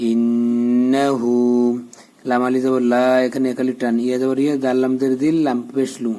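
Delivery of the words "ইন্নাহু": ইন্নাহু very slowly, humming on "nn"; ghunnah and madd. Shown as a demonstration. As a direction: hold the nn, then lengthen "hu" in ইন্নাহু. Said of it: "এখানে গুন্না". (ইন্নাহু, গুন্না ও টান দিয়ে)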